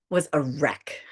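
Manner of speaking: a soft unvoiced admission; whispered confession. Real, not acted. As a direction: whisper it, a little ashamed. Confessing a rough weekend.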